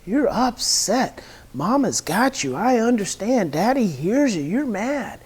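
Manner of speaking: put-on slow, gentle soothing of a baby; calm the crying baby, slowly. Shown as a demonstration. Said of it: "you say".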